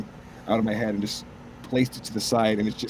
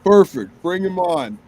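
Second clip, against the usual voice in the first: excited director; 6 semitones higher, 7 dB louder than usual. Retold or imitated. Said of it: "He's like".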